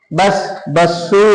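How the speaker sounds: slow బస్ then బస్సు with an added "u"; బస్సు with a final "u" vowel; Telugu vowel ending. Shown as a demonstration. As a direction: stretch బస్ into బస్సు slowly. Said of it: "road పెట్టేస్తాం".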